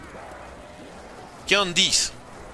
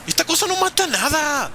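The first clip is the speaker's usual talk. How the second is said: real frustrated yell, higher; 10 semitones higher than usual. Real, not acted. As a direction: shout it out in frustration. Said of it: "Perdón por gritar".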